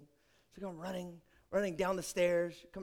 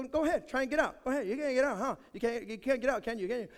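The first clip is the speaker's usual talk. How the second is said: teasing taunt; 4 semitones higher, faster than usual. Retold or imitated. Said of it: "I go".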